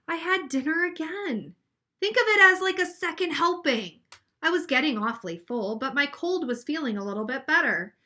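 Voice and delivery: put-on expressive read-aloud for children; reading a picture book to a class; story narration. A narrator's reading.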